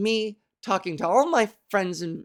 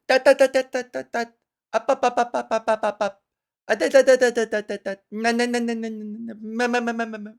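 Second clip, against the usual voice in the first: benevolent queen; 2 semitones higher, faster than usual. Retold or imitated. Comic hushing of an apologetic fan, like a queen. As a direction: hush her grandly, like a queen. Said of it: "in the most benevolent way, like a queen".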